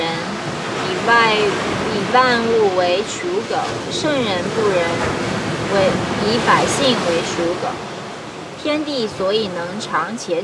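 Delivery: measured reading in short, paused phrases; formal Mandarin read-aloud with falling phrase ends; classical Chinese recitation. Acted. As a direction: recite an ancient text line by line.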